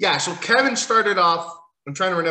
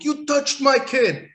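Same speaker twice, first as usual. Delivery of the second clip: much higher, slow, hammed-up menace; Goldberg impression; 9 semitones higher, 3 dB louder, slower than usual. Vlogger quoting Goldberg's Crown Jewel line, mock-menacing. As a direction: drag out each word like a mock-angry Goldberg. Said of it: "in the words of Goldberg".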